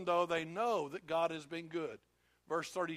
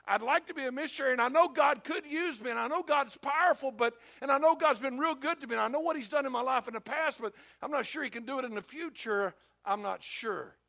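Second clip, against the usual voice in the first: doubtful believer; 5 semitones higher, 4 dB louder than usual. Acted. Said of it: "and you're like".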